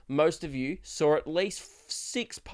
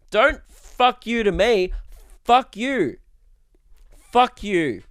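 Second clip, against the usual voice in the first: mock angry retort; 5 semitones higher, 4 dB louder, slower than usual. Snapping back at a rude fan.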